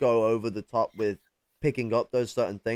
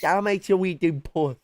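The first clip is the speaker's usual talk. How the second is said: Geordie; 7 semitones higher, 4 dB louder than usual. Pretend. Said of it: "joining the Geordie impression".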